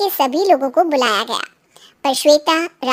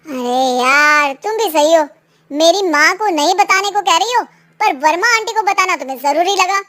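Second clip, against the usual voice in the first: annoyed husband; 3 dB louder than usual. Acted. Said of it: "दुख गुस्से में बदल गया था".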